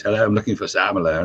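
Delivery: lightly imitated English accent. English tour manager phoning the DJ, imitated English accent. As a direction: put on a polite English accent. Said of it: "a man on the phone had an English accent".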